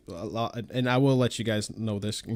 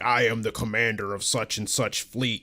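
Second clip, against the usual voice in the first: sassy commander. Retold or imitated. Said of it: "getting all sorts of sassy".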